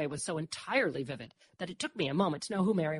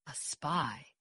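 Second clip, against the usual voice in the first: softer inward musing; thinking to oneself; 3 semitones lower, 7 dB quieter than usual. A narrator's reading. Dor ponders the idea, thinking to herself. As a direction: murmur it as a private thought. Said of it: "I thought".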